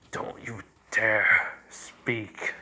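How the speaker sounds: very slow, half-whispered threat; menacing warning. Acted. Zabuza warning the woman off Haku, slow menacing warning.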